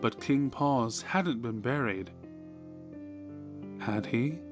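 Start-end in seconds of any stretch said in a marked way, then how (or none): none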